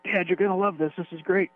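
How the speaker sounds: high-pitched mock pitch to Dad; enthusiastic son. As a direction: put on your kid's keen, high voice. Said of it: "they'll show me some stuff. Like".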